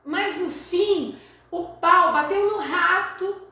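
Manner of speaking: put-on boy telling his story. Teacher voices the boy who tried to save the rat. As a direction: speak as the boy confessing. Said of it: "o menino tá contando".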